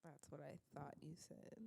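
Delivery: very soft, low-volume mumble; barely audible. Real, not acted. Co-host answering host under her breath, very quiet.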